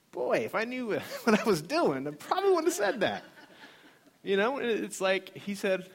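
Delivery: high, loud, laughing through the words. Real, not acted. Speaker looking back on his risky prayer, laughing. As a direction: break into laughter at your own folly.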